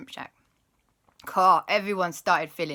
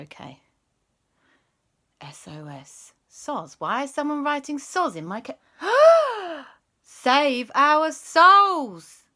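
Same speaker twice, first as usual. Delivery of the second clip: dawning alarm; 8 semitones higher, 8 dB louder than usual. Acted. Policeman realises ghosts' message.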